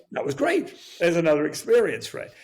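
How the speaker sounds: put-on high, gleeful boyish thrill; excited. Storyteller recalling the boys' secret trip, pitched high with glee. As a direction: relive the kid's delight at getting away with it.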